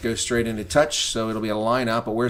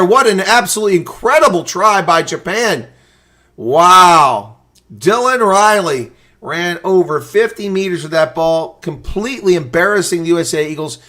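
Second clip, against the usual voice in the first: much higher and louder, near screaming; frantic play-by-play; 7 semitones higher, 9 dB louder than usual. Real, not acted. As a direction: call the breakaway try in disbelief. Frantic live call of a try.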